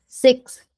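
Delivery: "Sixth." with an x sound pulled straight into th; "Sixth." with a quick x then th. Shown as a demonstration. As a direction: slide from the x of "Sixth." into a blown th. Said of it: "você faz o X e já puxa o T H".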